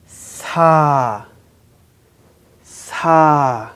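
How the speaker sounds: "sa" held long on an open ah; syllable reading. Shown as a demonstration. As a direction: read "sa" as a slow, separate syllable. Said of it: "let's read these syllables".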